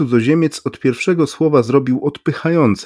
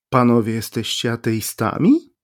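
ordinary delivery, nothing marked

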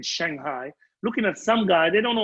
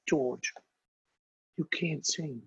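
retold; 3 semitones lower, 8 dB quieter than usual. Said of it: "I can't do accents like".

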